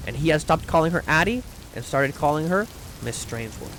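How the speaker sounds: measured, softly read storytelling; audiobook-style reading with light dialogue; story narration. A narrator's reading. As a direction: read it aloud like a genteel short story. Reads a short story aloud.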